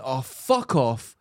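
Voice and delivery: slow, drawn-out and fed up; weary fuck off. Retold or imitated. Telling a friend how she snapped at a rude customer, slow and weary. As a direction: let it sag out of you, exhausted. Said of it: "I just went".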